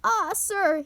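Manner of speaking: gasped. A narrator's reading. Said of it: "he gasped".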